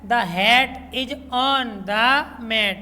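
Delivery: very slow, word-by-word reading. Shown as a demonstration. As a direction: read it out slowly for the children. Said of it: "reads sentence slowly to class". (बच्चों को धीरे-धीरे पढ़कर सुनाना)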